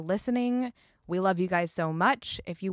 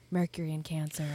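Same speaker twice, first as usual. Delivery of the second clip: breathy whispered quote; whispering; 3 semitones lower, 5 dB quieter than usual. Retold or imitated. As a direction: whisper it like a secret. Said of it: "I'm like".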